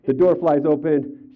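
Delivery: slow and loud, each word landing; retelling the door crashing open, slow and loud; dramatic slam. Retold or imitated. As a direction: bang the door open with your voice. Dramatizing client bursting in.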